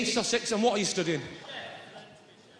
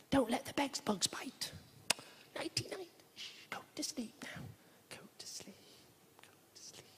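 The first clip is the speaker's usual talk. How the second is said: soothing parent voice fading to a whisper; bedtime hush; 3 semitones lower, 5 dB quieter than usual. Acted. Parent tucking daughter up in bed, tender hush. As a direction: softly settle a child, hushing down to a whisper. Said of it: "tucking your daughter up in bed".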